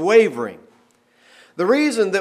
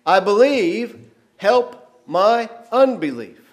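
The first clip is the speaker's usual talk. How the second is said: mild tearful plea; 5 semitones higher, 5 dB louder, slower than usual. Retold or imitated. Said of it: "crying out with tears".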